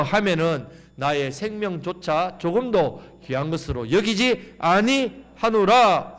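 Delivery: slow, measured reading aloud; scripture reading. Acted. Preacher leading the congregation in reading, slow. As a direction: read it slowly for the whole church. Congregation reads Acts together.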